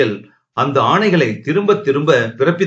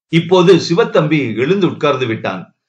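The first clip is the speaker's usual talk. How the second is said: ordinary delivery, nothing marked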